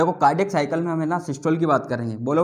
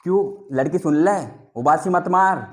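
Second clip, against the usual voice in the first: raised, sharp scolding at a yawning student; louder and higher to snap a sleepy class awake; 3 semitones higher, 5 dB louder than usual. Real, not acted. (उबासी लेती छात्रा को ऊँची आवाज़ में डाँटना)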